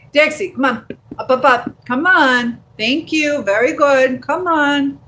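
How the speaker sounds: high pet-owner voice, encouraging; dog voice. Real, not acted. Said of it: "You have my dog voice".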